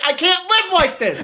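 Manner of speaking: mock despair. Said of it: "And I'm like".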